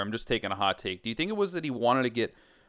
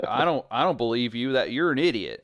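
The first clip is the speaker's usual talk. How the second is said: lazy Southern twang, a bit louder; southern accent; 4 dB louder than usual. Retold or imitated. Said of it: "Nice southern accent".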